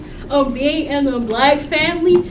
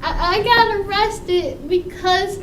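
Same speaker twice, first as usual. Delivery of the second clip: slow sheepish explanation; 6 semitones higher, 5 dB louder, slower than usual. Retold or imitated. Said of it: "I'm like".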